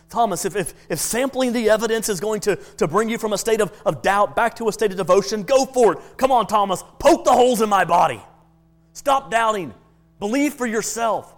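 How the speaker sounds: a touch of Jesus urging Thomas. Retold or imitated. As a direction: dare him gently to check.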